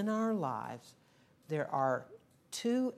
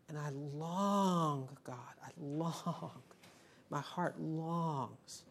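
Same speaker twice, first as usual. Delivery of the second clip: longing prayer; 2 semitones lower, 3 dB quieter, slower than usual. Retold or imitated. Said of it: "Second attitude is".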